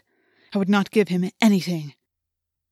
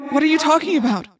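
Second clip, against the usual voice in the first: higher, louder, disbelieving question; alarmed; 7 semitones higher, 5 dB louder, faster than usual. A narrator's reading. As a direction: demand it in alarm. Shocked reply to grim plea.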